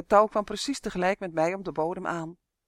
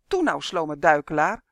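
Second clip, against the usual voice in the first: luid, ongeduldig aansporen; ongeduldig roepen; 7 dB louder than usual. Acted. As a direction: roep de trage draak ongeduldig toe. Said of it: "riep Uf". (elf Uf roept ongeduldig naar de trage leguaan)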